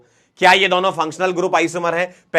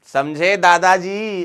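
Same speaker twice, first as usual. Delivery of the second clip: slow teasing question; 3 semitones higher, much slower than usual. Real, not acted.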